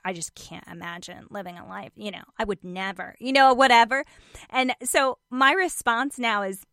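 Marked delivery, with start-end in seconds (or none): 0.0-3.2 mock snooty, softer; quiet dismissive aside. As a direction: whisper the real judgment under the breath. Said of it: "what they're really saying is".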